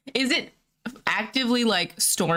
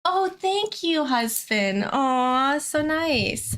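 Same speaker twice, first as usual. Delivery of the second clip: touched thanks; 6 semitones higher, much slower than usual. Real, not acted. Thanking husband who brought food.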